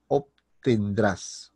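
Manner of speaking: very slow, split after the first syllable; slow syllable break. Shown as a demonstration. Teacher repeating the correct verb for students, very slow. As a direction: break it apart slowly for learners.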